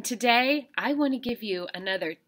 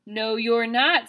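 a hint of the troll, a little slow; only a touch of the grumpy troll; lightly voiced troll; 3 semitones higher, 3 dB louder, slower than usual. Shown as a demonstration. Teacher rereads the troll's line, a bit slow. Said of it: "said the troll".

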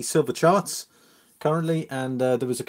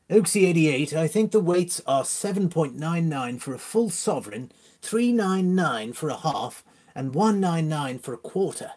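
put-on posh accent; 3 semitones higher than usual. Streamer reads chat aloud for fun, put-on posh accent. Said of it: "He has gone all posh".

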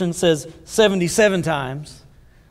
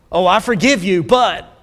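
fake forgiveness; 4 dB louder than usual. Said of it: "So many times people say".

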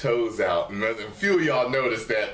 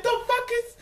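high, laughing disbelief; pitched-up mock outrage; incredulous outburst; 13 semitones higher than usual. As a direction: throw it back at them, half laughing. Exasperated retort to viewers.

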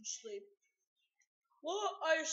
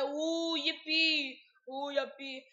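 cheering; 6 dB louder, slower than usual. Pretend. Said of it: "to say".

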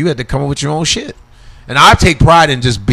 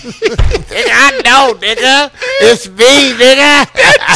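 excited; 9 semitones higher, much slower than usual. Real, not acted. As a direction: burst out excited. Excited recognition.

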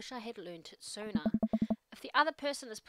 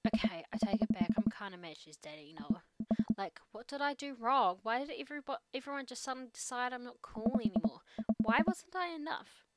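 a lightly voiced teenage girl venting; teen daughter voice. Teen daughter venting to her dad, lightly voiced. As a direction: play it as an upset teen unloading. Amanda confiding sadness.

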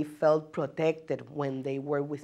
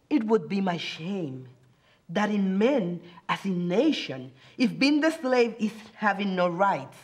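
measured, dramatic reading of a poem with long pauses; solemn spoken verse, each line weighed; poem recitation. Acted.

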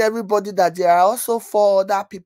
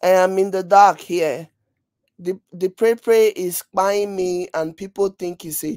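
louder, mock complaining voice of him; mock whining imitation; 6 dB louder than usual. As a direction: parody his self-pity loudly. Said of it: "So he's like".

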